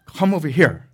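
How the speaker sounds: put-on father calls his sons over in Korean accent; dad calling in Korean accent. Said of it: "He's talking about us".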